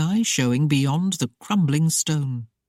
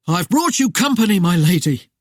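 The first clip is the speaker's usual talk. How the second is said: chortling; 3 semitones higher, 6 dB louder than usual. Acted. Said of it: "he chortled".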